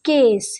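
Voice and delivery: কেস met een heldere e-klank, als in Bengaals এ; e sound demo. Shown as a demonstration. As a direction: zeg কেস met de klinker এ, niet ই. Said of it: "এই সাউন্ডটাই হলো ইংরাজির ই sound".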